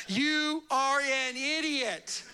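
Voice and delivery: slow, laughing put-down; wife calls him an idiot, half laughing; mock scolding.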